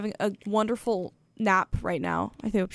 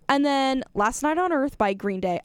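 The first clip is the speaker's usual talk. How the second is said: breathy near-whisper in a lightly voiced co-host impression; DJ Case impression. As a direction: hush it as a fan gushing over a favorite. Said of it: "this is my best D J Case impression".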